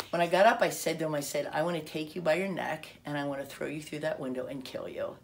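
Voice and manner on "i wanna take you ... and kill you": level, matter-of-fact menace; understated cold retelling of a threat. Retold or imitated. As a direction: state the threat coldly, voice held in check. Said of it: "as cold as anything".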